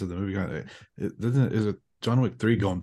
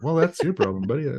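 mock retort; 7 semitones higher, 3 dB louder than usual. Retort to an imagined critic.

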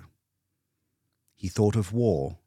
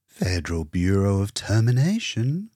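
warm hostess; 5 dB louder than usual. Acted. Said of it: "the very warm voice of a hostess".

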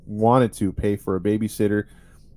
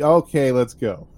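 slow, slightly raised imitation of a dad overriding a child; acted brisk dismissal of a refusal; mock cutting-off; 3 semitones higher, 4 dB louder than usual. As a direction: brush the objection aside, playfully. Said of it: "automatically cutting her off".

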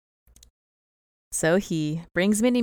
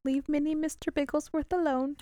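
Doctor Evil voice; 9 semitones higher, 5 dB quieter than usual. Retold or imitated. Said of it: "like, say it like him".

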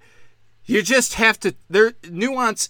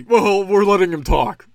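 loud, raised-pitch mocking holler; mock yelling; 3 semitones higher, 6 dB louder than usual. White man yelling at Dave about letting him talk, mock yelling. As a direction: imitate a man yelling over someone. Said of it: "yells at Dave".

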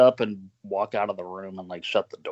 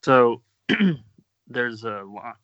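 choking on something; coughing and choking, struggling to talk; slower than usual. Real, not acted. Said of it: "This is not a bit".

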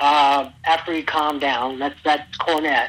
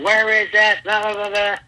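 higher, louder mock yell at the wrestlers; imitating a yell; 6 semitones higher, 3 dB louder than usual. Trainer yelling about the tryout, mock shout. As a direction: bark it like an angry trainer. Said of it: "Cornette yelling and screaming".

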